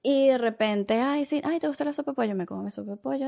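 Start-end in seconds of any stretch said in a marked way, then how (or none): 1.0-2.3 relative's voice. Retold or imitated.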